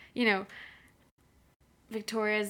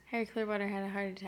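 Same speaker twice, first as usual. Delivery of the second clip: fast; 2 semitones lower, 6 dB quieter, faster than usual. Shown as a demonstration. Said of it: "say it five times fast".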